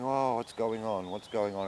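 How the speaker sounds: like surfacing from a heavy drug; dazed and groggy. Retold or imitated. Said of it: "I'm coming round and I'm thinking".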